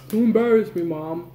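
put-on whiny kid. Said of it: "if I s-, yell at him".

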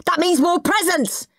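high-pitched greedy glee; gleeful excitement. Acted. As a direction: exclaim it like a thrilled boy. Boy thrilled guests bring presents.

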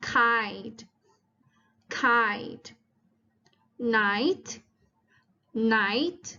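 "kite" and "night" with a drawn eye vowel; long I sound. Shown as a demonstration. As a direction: model "kite", "night" slowly as separate words, vowel as eye. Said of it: "อีกเสียงหนึ่งก็คือเสียง".

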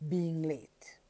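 whispered example phrase; whispered quote. Shown as a demonstration. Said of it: "marks off the introductory phrase".

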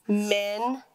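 "men" with a short e; short vowel. Shown as a demonstration. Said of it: "this is gonna be short".

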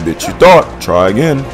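mocking taunt. Real, not acted. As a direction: rub it in the boss's face. Taunting boss, high and loud.

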